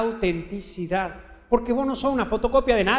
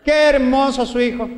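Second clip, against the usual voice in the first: mock proud mother; 4 semitones higher, 6 dB louder than usual. Mother repeating praise mockingly.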